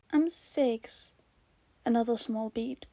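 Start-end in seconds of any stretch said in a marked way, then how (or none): 0.1-1.1 put-on higher little-kid voice; child's voice. Child telling host his age, small voice. Child answers host's question.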